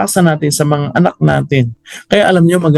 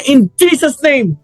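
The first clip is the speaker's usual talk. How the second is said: forceful rebuke; 12 semitones higher than usual. Retold or imitated. Mother rebukes her husband swinging the bolo, forceful higher rebuke. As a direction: cry it out as a rebuking command. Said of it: "nirebuke ng nanay ko".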